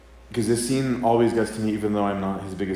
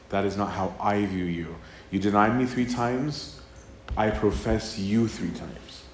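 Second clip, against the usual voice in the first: tender restoring words; 3 dB quieter than usual. Retold or imitated. Christ restoring Peter.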